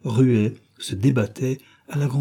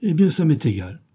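put-on robber girl voice; 6 semitones higher than usual. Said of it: "elle dit".

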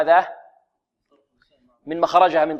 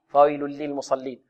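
"فويل للمصلين" run through lightly, softer, lams barely held; snatched, hurried; 3 semitones lower, 5 dB quieter than usual. Shown as a demonstration. Teacher showing what readers must avoid, hurried recitation. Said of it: "من خطفها والإسراع فيها".

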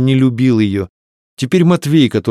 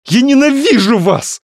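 high, loud, hateful scream; shouted; 14 semitones higher, 5 dB louder than usual. A narrator's reading. Varya screams her hatred at both men, high and loud. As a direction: scream your hatred at them. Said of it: "она выкрикнула".

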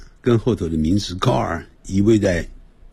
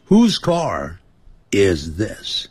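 清楚示范句子; much slower than usual. Shown as a demonstration. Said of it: "主语跟动词要倒过来讲".

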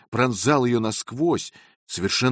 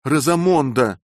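louder, stern rebuke of her name; sad but stern; 5 semitones higher, 7 dB louder than usual. A narrator's reading. Husband sternly reining in his wife. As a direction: check her firmly, grieved. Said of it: "не только печаль, но и строгость".

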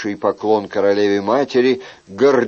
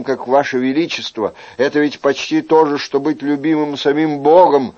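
slightly raised, earnest courtier's voice; grateful young courtier; 3 semitones higher than usual. Acted. Young man thanks the king for his favour, fervent. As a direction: pour out thanks to your sovereign.

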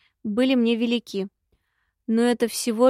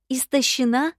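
surprised; 2 semitones higher than usual. Acted. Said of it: "переспросила я удивлённо".

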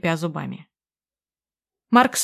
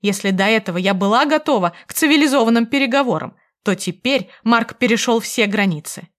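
plain reading voice

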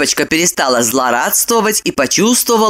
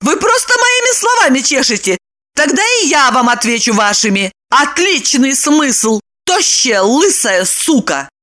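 high, exasperated woman's voice; beside herself; 7 semitones higher than usual. A narrator's reading. Lipochka throws Roman's words back, exasperated. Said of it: "Липочка вышла из себя".

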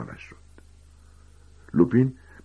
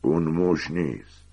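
slow, husky statement; hoarse voice; slower than usual. Acted. Sirius Black corrects Ron about the rat, slow and hoarse. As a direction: draw it out slowly and hoarsely.

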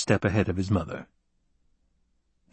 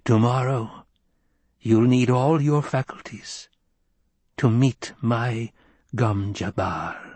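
slow menacing witch voice; ominous old crone. Acted. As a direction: draw out the threat like a witch. Crone threat.

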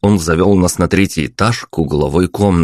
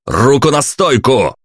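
higher, sharp mild shout; shouted order; 7 semitones higher than usual. A narrator's reading. Hero orders receptionist, a mild narrated shout. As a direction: bark the order. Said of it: "проорал я".

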